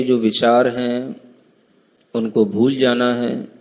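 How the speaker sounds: measured meditation guide with long pauses; calm instructions, spaced out by long silences; guided meditation. Acted. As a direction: guide them inward, phrase by phrase.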